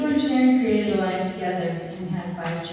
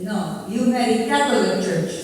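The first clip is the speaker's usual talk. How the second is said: lightly voiced grandmother, louder and insistent; mock scolding grandmother; 3 semitones higher, 7 dB louder than usual. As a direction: put on a grandmother's firm, loud objection. Acting out grandmother's objection to wedding.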